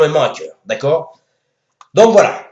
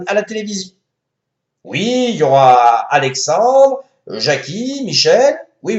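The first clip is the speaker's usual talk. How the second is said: Macron voice; 5 semitones higher than usual. Acted. Manu phoning his wife.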